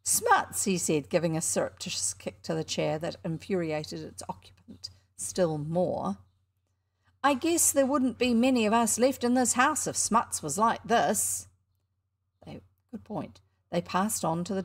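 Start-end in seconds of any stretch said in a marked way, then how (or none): 0.0-0.6 very high, scoffing laugh in the word; hammed-up amused scoff; mock amusement. A narrator's reading. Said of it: "laughed as though vastly amused". 7.2-11.5 high, loud showman patter; a cocky boy hawking his show; boy barker at a penny show. Acted. Showman mocking the idea.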